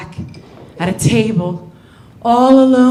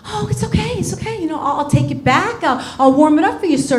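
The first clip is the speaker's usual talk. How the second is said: smooth it over gently; soothing waiter; 5 semitones higher, faster than usual. Retold or imitated. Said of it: "the waiter's like".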